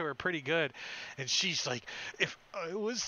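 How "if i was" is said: hammed-up high-pitched grievance; wounded barbarian voice. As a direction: strain it out high, as if just slashed. Wounded barbarian's reaction, acted.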